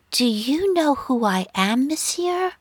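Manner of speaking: put-on imperious French-accented woman, pitch soaring at the end; high, haughty French-accented challenge. A narrator's reading. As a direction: pull rank in a French accent. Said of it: "in her impeccable French accent".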